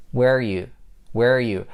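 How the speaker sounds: "Where you", where are you as one chunk; fuse are into the end of "Where"; blended words. Shown as a demonstration. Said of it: "Those three words are blended together".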